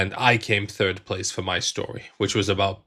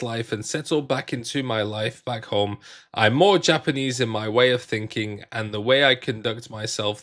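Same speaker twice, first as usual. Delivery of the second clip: careful, measured read-aloud of a written post; reading a personal post aloud to viewers; nicest reading voice. Real, not acted. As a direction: read it out neatly, with lifted key phrases. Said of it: "put on my nicest reading voice".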